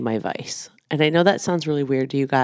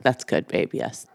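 lower, softer mock husband voice; mock husband approval; 4 semitones lower, 4 dB quieter than usual. Wife imitating her husband approving her, low mock voice. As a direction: nod it off deep and easy.

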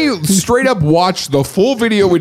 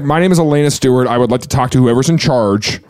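entitled caller; 4 semitones lower, faster than usual. Retold or imitated. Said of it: "coming in real strong".

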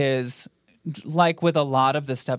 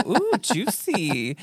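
titillated; 5 semitones higher, much slower than usual. Retold or imitated. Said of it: "And they go".

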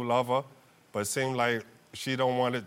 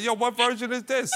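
much higher and louder, mock shocked; shocked disbelief; 12 semitones higher, 4 dB louder than usual. Husband baffled by wife's refusal, mock shocked high voice. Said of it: "I'm like".

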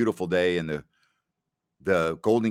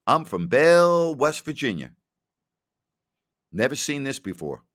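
higher, louder, slow small-town drawl at the start; imitating a wide-eyed rookie; 5 semitones higher, 4 dB louder than usual. Rookie teammate on the bus, mildly mock-amazed voice. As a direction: lightly play the amazed country kid. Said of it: "He goes".

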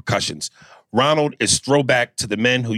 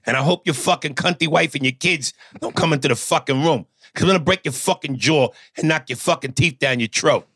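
Jersey Italian mobster. Acted. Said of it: "Tommy Pescatelli, fucking Italian from Jersey".

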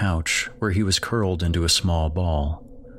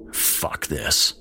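disgusted dad; 5 semitones lower than usual. Acted. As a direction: breathe it out under the breath.

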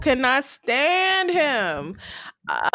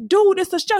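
exasperated actor; 9 semitones higher, 4 dB louder than usual. Retold or imitated. Actor pleading with angry fan.

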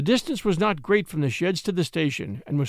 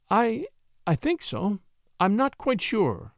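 slow, halting, higher and unsure; stammering; 5 semitones higher, slower than usual. A narrator's reading. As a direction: stumble over the words, a touch higher. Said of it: "she stammered".

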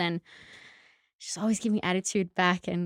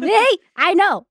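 1 smug mom; 12 semitones higher, 9 dB louder, slower than usual. Retold or imitated. Mom teasing daughter who liked food.

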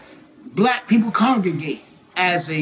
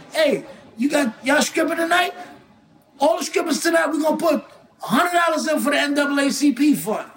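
lightly acted higher-pitched call-out; imitated club hype; 4 semitones higher, faster than usual. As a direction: call it out like a mock club promoter. Mimics someone hyping a club night.

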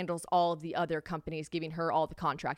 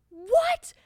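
high, loud disbelieving "What?"; a father who can't believe his ears; shocked dad; 8 dB louder than usual. Retold or imitated.

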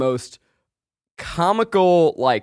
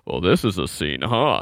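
low, creepy-close dad voice; dad's whispered aside; 8 semitones lower than usual. Retold or imitated. Dad leans over during sex scene, low mock-whispered remark. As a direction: imitate dad murmuring into your ear. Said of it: "Why did you whisper that to me".

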